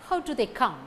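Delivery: "How" and "come" stressed, weak "do they". Shown as a demonstration. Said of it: "How and come carry stress".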